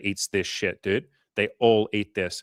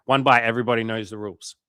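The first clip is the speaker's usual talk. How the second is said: mock catchphrase delivery, louder; a hint of an impression, punched out loud; Barstool guy; 5 dB louder than usual. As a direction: lightly imitate a pizza reviewer's catchphrase. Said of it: "Like that guy at Barstool".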